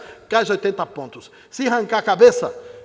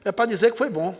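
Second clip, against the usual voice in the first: usual speaking voice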